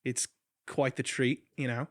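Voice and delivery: casual mock Aussie; playful Australian imitation; Australian accent. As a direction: show off an easy put-on Australian accent. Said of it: "talk the rest of this episode in that accent".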